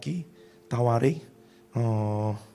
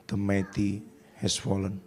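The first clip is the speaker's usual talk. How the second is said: mournful lament; 5 semitones lower, much slower than usual. Retold or imitated. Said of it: "Dia nulis lagu loh".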